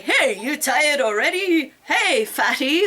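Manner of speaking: lightly voiced taunting boyfriend, slow; a hint of a sneering coach jeering; mocking boyfriend. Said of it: "and he's like".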